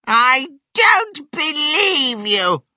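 slow, high, loud retort; scornful drawn-out yell; shouting back. A narrator's reading. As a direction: holler back in disbelief as Grandma. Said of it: "she shouted back".

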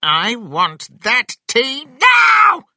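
loud, high, drawn-out demanding yell; shouting. A narrator's reading. Grandma insists on having the tea, shouting. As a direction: shout it slowly, biggest on the last word. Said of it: "Grandma shouted".

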